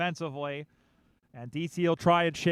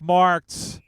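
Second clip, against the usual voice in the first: excited call; 9 dB louder than usual. Real, not acted. Live call of a mark.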